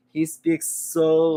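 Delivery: very slow and drawn out; slow, mesmerizing speech. Retold or imitated. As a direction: take your time with every word. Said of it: "He takes his time".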